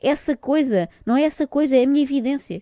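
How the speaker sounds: mock the fuss over a phrase; mocking nitpickers. Host mocking the guests for nitpicking, sarcastic. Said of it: "Que picuinhas".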